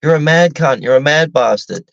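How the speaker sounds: quoted Aussie slang. Retold or imitated. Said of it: "the phrase we all coin these days".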